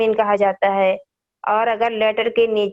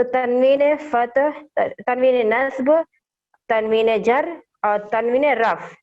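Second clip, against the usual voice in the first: slow naming; slower than usual. Shown as a demonstration. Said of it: "इन सब के अलग-अलग names हैं".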